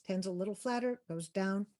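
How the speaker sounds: even tone, stepping downward on "down"; flatter, with a falling close on "down"; credible voice. Shown as a demonstration. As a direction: keep it level, then drop the pitch on "down".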